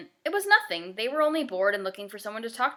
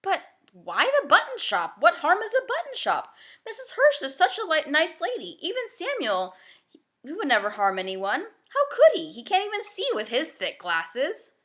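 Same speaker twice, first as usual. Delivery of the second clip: put-on high, loud girlish protest; a child indignant at an injustice; girl defending her neighbours to Peter, high and loud; upset young girl; 8 semitones higher, 6 dB louder than usual.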